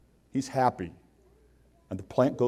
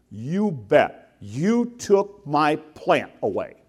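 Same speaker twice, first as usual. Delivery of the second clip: slow, indignant retort; mock-sulky accusation, word by word; angry Jonah; 2 semitones higher, much slower than usual. Jonah blames God for taking his plant, slow mild indignation. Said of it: "I am so angry".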